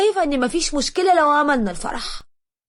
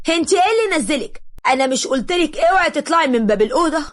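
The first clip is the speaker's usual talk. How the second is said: put-on higher, sharp scolding of a disobedient girl; scolding mother; 5 semitones higher, 3 dB louder than usual. Mother scolding Hedia for coming downstairs, raised and sharp. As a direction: tell her off for leaving the room.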